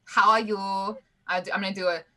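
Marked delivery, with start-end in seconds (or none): 0.0-0.6 slow, hammed-up Nordic accent; mock Swedish accent. Diplomat retrying her introduction, slow mock Swedish accent. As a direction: spell it out in a halting Swedish accent. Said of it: "are we just all from Sweden?".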